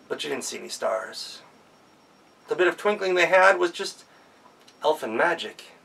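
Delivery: ordinary delivery, nothing marked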